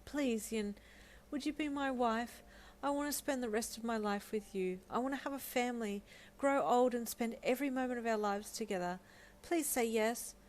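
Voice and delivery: a hopeful, tender proposal; pleading. Acted. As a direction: ask her with your whole heart. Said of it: "he pleaded".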